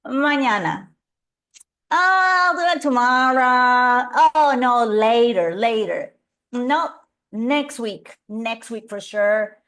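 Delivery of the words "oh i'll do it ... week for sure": procrastinator excuses. Retold or imitated. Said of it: "My favorite word used to be mañana".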